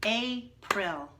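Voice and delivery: April split into beats as if clapped, A then pril; clapped syllables. Shown as a demonstration. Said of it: "let's clap it".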